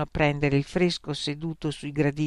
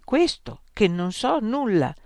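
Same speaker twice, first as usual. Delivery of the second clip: serene; 6 semitones higher than usual. Acted. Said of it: "fece Socrate serenamente".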